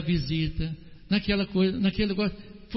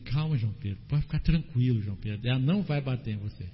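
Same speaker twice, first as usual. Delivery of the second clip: much softer and lower, gentle and soothing; 8 semitones lower, 5 dB quieter, faster than usual. Real, not acted. Pastor gently calming little João Pedro, soft and soothing. Pastor calms a frightened child.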